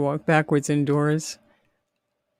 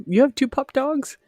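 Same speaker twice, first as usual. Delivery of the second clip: surprised; 10 semitones higher than usual. Real, not acted. Surprised at viewer's pups.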